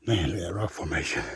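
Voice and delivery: hushed, awed whisper. Real, not acted. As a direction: breathe it out in wonder. Awed at a view.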